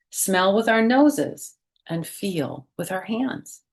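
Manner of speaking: lively picture-book read-aloud voice; reading to children. Acted. Teacher reading a picture book to her class, lively read-aloud. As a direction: read it out like story time for little kids. Reads child character's words.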